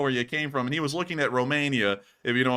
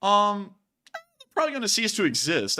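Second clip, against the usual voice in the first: creaking door voice; 8 semitones higher than usual. Real, not acted. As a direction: let the voice creak and groan. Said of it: "I don't mean to sound like a creaking door there".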